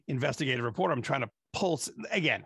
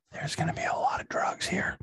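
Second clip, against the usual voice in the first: hushed whisper of private anticipation; conspiratorial whisper; 5 semitones higher than usual. Retold or imitated. Retelling his thought before the Dead show, conspiratorial whisper.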